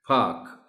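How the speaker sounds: पार्क as a long "paak"; silent r. Shown as a demonstration. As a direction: say पार्क without any r. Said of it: "आर is silent". (پارک r کے بغیر، "پاک")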